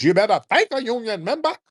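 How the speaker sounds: high, loud mocking put-on Black accent. Mocking Kamala's Black accent for a Black crowd.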